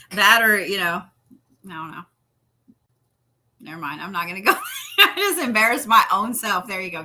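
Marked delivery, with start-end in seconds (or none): 4.8-6.7 laughing. Real, not acted.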